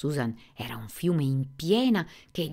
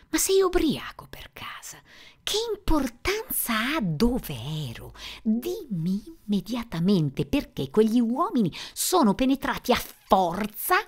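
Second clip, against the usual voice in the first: high, loud furious yell, slowing at the end; 8 semitones higher, 6 dB louder than usual. Acted. Susan shouting at Warren so he pulls the phone away. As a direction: scream it down the phone line. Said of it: "L'urlo costrinse Warren".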